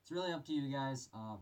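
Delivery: muffled voice inside a respirator; through a gas mask. Real, not acted. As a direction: talk from behind a gas mask. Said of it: "put this mask on here for you guys".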